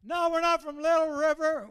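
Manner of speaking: put-on high, loud kids' holler from the parade; kids hollering. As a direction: yell a correction from the street like Little Leaguers. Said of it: "they holler out".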